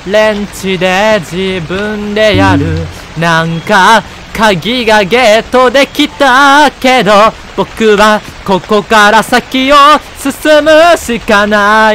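slow, loud, high dramatic reading; hammed-up narration. Player reading the hero's lines, slow, loud and high. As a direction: read the game text like a ham actor. Reading game text in put-on voice.

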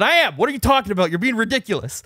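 high, indignant comeback; punchy, incredulous protest in a retold quarrel; retold exasperated retort. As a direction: act out arguing back. Acted quarrel, arguing back.

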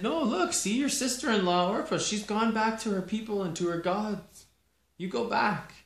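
high, loud urging; Naomi urging. Acted. Naomi telling Ruth to follow Orpah, loud and high. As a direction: push her to go home, loud and high.

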